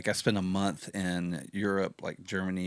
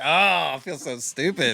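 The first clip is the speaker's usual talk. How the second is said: embarrassed; 6 semitones higher, 5 dB louder than usual. Retold or imitated. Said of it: "I'm like".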